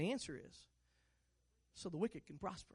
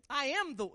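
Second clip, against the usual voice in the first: "I am" hit higher and louder; stress on I am; 4 semitones higher, 5 dB louder than usual. Shown as a demonstration. Preacher showing church the emphasis, "I am" punched. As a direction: punch "I am", then break off. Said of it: "see, there's the ph-, emphas-, emphasis".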